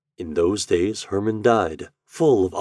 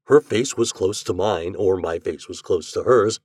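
a first person storyteller; 4 semitones higher than usual. Acted.

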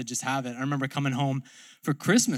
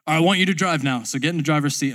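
a touch louder, firm coach voice; coach giving orders; 4 dB louder, faster than usual. Retold or imitated. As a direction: give a firm instruction from the passenger seat. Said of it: "And he's like".

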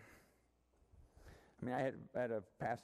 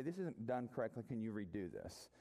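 calm request; 3 semitones lower than usual. Retold or imitated. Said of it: "you can also just say".

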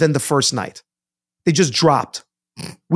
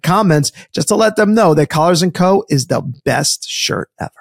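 emphatic promo-code plug; ad read; 4 dB louder than usual. Acted. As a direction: sell it to the listeners, punching the brand name. Reads a sponsor plug.

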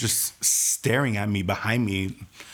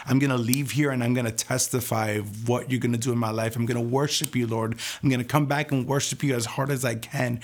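fervent vow; 2 semitones higher than usual. Retold or imitated. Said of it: "I kept on telling the Lord".

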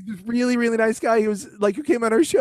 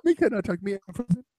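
staccato robot; 5 dB quieter, faster than usual. Pretend. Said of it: "we keep speaking in staccato sentences".

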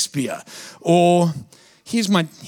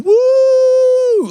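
gleeful whoop; 6 dB louder than usual. Retold or imitated. Son swinging in the net.

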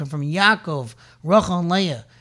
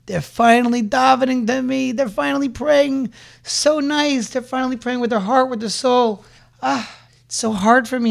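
higher, pleased voice of God; a fond God sighing over his people's prayers; God's voice; 5 semitones higher than usual. Retold or imitated. God muses about his praying people, pleased and higher. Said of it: "And the Almighty said".

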